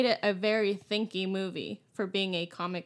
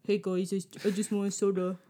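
Batman. Retold or imitated. Remembering he's Batman at the convenience store, mock crunchy voice. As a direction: redo it in a silly crunchy superhero voice. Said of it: "I'm Batman".

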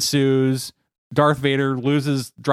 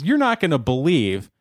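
gleeful buildup; 5 semitones higher than usual. Acted. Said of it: "He says".

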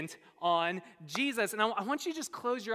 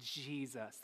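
acted scolding, drawn out word by word; indignant, talking down; slower than usual. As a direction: talk down to her, incredulous and slow. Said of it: "They talked down to her".

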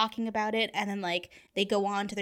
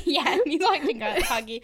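laughing; 6 semitones higher, 5 dB louder than usual. Real, not acted. Laughing repeat of friend's line.

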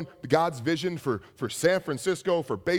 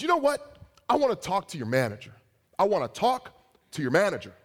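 indignant customer; 4 semitones higher than usual. Retold or imitated. Retelling an angry customer's demand.

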